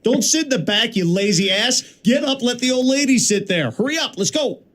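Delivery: high-pitched, bossy train announcer; own train announcement. Shown as a demonstration. Candidate redoes his audition for the train voice, bossy high announcement. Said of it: "here's how I did it".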